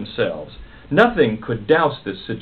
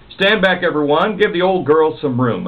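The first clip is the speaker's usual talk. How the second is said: announcing; 4 semitones higher than usual. Acted. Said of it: "announced Clarice".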